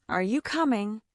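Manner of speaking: "Are you coming?" with the voice climbing on "coming"; rising question intonation. Shown as a demonstration. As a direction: let the pitch go up at the end of "Are you coming?". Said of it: "your voice usually goes up at the end".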